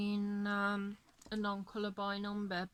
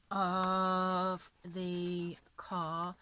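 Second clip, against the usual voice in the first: yawning through words; 3 semitones lower, much slower than usual. Real, not acted. Speaker keeps yawning while talking.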